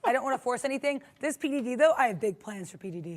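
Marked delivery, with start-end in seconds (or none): 2.0-3.2 lightly voiced supervillain; a hint of a scheming villain. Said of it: "why do you sound like a supervillain".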